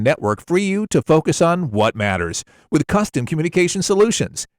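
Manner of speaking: polished corporate ad voice; corporate commercial read. Shown as a demonstration. Voice actor demoing a corporate CenturyLink spot. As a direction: sound like a trusted business partner. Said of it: "more corporate-y for the CenturyLink".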